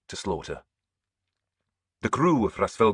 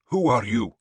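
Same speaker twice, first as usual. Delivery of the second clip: asked; 4 semitones higher, 4 dB louder than usual. A narrator's reading. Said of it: "he asked me".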